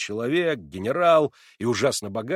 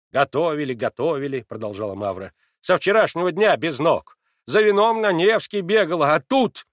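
much louder and higher, grumbling; rude, cross; 5 semitones higher, 8 dB louder than usual. A narrator's reading. Maid Mavra grumbling at Natasha, rude and cross. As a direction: scold like a put-out maid.

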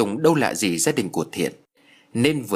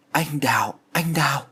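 higher, understated delirious call; lightly altered, raised voice of a sick man; strayed voice; 4 semitones higher than usual. A narrator's reading. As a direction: call the name as if lost in a fever, voice slightly off. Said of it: "Giọng của Thiện lạc hẳn đi".

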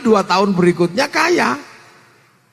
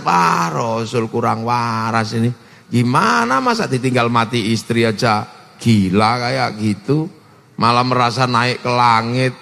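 scornful gossip; 10 semitones lower than usual. Acted. Doubting companions gossip about Rasul.

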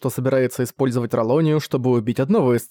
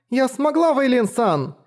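put-on much higher, excited girl's cry; joyful; 11 semitones higher, slower than usual. A narrator's reading. Girl celebrating with her teacher, excited high cry. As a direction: burst out happily.

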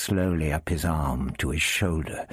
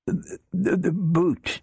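stammering; 13 semitones higher, slower than usual. Acted. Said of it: "he, he repeated".

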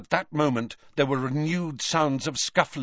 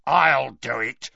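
snarling; 4 semitones higher, 4 dB louder than usual. A narrator's reading. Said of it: "snarled Greyback".

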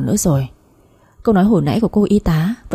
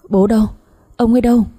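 slightly raised, anxious demand; urgent questioning; 4 semitones higher, faster than usual. Acted. Mother grabbing daughter, asking after husband, in urgent questioning. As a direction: press for an answer, mildly frantic. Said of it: "túm cổ áo con Lan mà hỏi dồn".

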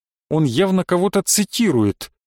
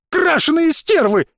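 much higher, loud yell that breaks; boy yelling at the jeering crowd, voice breaking; voice cracking shout; 13 semitones higher, 3 dB louder than usual. A narrator's reading. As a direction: scream the insult until the voice gives. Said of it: "голос действительно сорвался".

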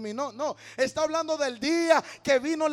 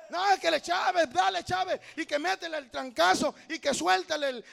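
higher-pitched mock cheering for a boxer; imitated fight fan; 4 semitones higher, 4 dB louder than usual. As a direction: egg the fighter on like a spectator. Acting an excited boxing fan. (aficionado animando la pelea, imitado)

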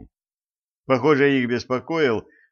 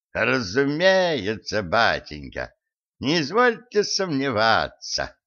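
sly; slower than usual. Acted. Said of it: "хитро прищурился Гадюкин".

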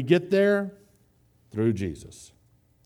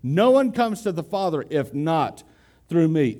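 "if not" leaned on, slightly raised; stress on if not; 3 semitones higher than usual. Shown as a demonstration. Preacher repeating the original wording, stressing "if not". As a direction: mark "if not" clearly. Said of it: "That's how Jesus originally said it".

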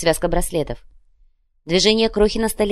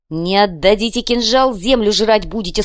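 hysterical threat; 4 semitones higher, 5 dB louder than usual. Acted. Krokhin threatening the diggers.

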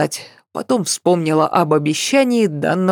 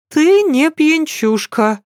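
obediently agreeing; 10 semitones higher than usual. Acted. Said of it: "послушно согласилась она".

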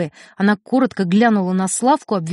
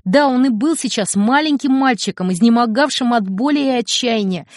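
plain reading voice

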